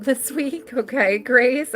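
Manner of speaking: real laugh slipping into a suggestion; amused laughing. Real, not acted. Reader suggesting a night out to client, amused laughing. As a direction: chuckle through the advice. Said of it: "the only reason why I'm laughing".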